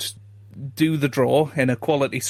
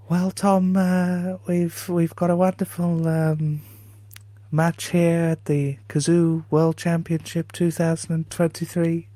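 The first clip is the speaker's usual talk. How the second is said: Welsh commentator voice, raised pitch; Dominic Dale impression; 3 semitones higher than usual. Doing Dominic Dale for the host, Welsh commentator voice. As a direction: mimic the lilting Welsh snooker commentator. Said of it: "you do an impression of a player".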